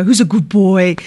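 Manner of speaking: light sing-song pet voice asking a golden retriever; pet talk. Retold or imitated. Host imitating dog park pet talk, light sing-song. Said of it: "a voice three octaves higher".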